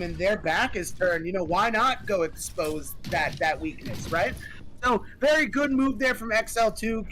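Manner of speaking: esports caster voice; play-by-play casting. Acted. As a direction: call the match live.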